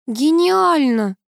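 mock groan. A narrator's reading. Nina moaning at Kuzya's fix, slow groaning. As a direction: moan the word in despair, slowly. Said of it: "простонала Нина".

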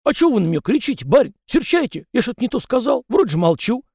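high chatty peasant voice, pitched well up; folksy yard spirit. A narrator's reading. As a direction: play the fussy little yard spirit, talking nonstop. Tikhon offended.

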